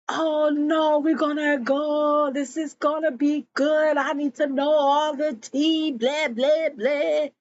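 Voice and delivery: high, run-on busybody voice; eager gossip. Retold or imitated. Essie insisting they go to hear all the tea, eager. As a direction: chatter it high, keen for the tea.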